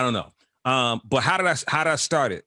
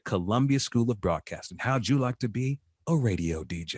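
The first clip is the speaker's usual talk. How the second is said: quoting the ad; 4 dB quieter than usual. Retold or imitated. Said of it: "a commercial on television that said".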